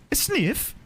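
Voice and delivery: playful, badly faked Italian Swedish lilt; mock Italian Swedish accent. Streamer working out how to sniff, mock Italian Swedish accent. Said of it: "How do I sniff in an Italian Swedish accent?".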